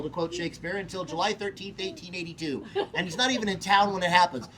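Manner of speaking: fast, fussy history nerd; polite rambling nerd, lightly voiced. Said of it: "the nerd voice cry out in protest".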